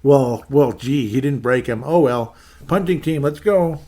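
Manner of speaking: high, loud mock pep talk, sarcastic throughout; mock-cheerful sideline coach; sarcastic coaching quote. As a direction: cheer the team on while mocking them. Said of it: "And it's like".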